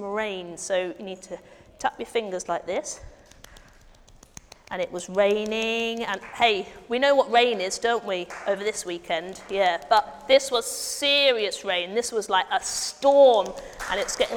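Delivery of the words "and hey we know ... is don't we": ordinary talk, nothing marked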